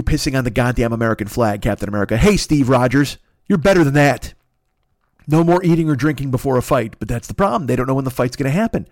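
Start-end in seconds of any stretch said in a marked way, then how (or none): 2.2-7.0 mock scolding. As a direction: talk down to him like a disappointed coach. Scolding Captain America directly.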